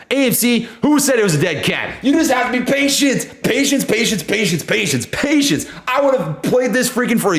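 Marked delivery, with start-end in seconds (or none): 0.8-5.7 gloating call-out. Real, not acted. Gloating at doubters.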